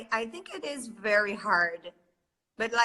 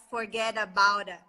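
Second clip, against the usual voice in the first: New York accent. Shown as a demonstration. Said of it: "what else do you have".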